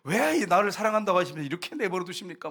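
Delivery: mock aggrieved plea to God; resentful complaint. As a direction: complain upward as if abandoned. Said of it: "주님 앞에 원망을 해요".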